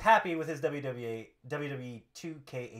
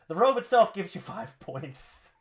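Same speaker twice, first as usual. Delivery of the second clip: wrestler reckoning; 3 semitones higher, 4 dB louder than usual. Acted. Acting Rusev's tally of points.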